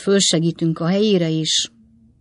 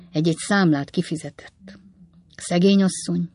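whisper. Acted. Old man recalling late wife.

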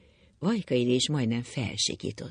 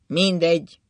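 louder, raised, bitter resignation; sad resignation; 4 semitones higher, 7 dB louder, slower than usual. A narrator's reading. Drunk husband no longer caring, sadly resigned. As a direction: give up with sorrowful force. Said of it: "mondta szomorúan".

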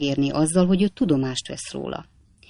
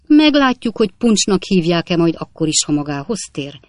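angry threat; 4 dB louder than usual. Acted. Captain threatens the sleeping man.

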